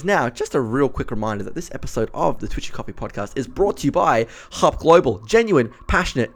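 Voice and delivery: ad read between swigs from a bottle; while sipping a drink. Real, not acted. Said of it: "I'm gonna do my ad read while I drink straight from this bottle".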